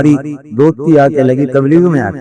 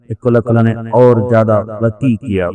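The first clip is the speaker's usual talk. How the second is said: normal talking voice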